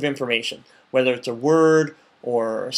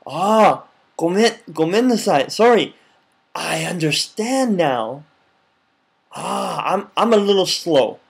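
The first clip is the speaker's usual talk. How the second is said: humble apology; 2 semitones higher, slower than usual. Pretend. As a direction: play the humble foreigner. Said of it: "Then you're like".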